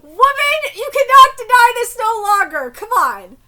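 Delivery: high, loud exclamation; excited insistence. Real, not acted. Reader scolding the manga heroine, excited insistence.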